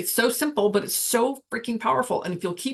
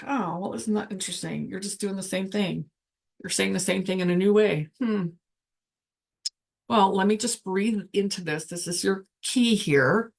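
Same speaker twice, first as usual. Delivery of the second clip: patient observer talking to a busy mind; calm inner voice. Pretend.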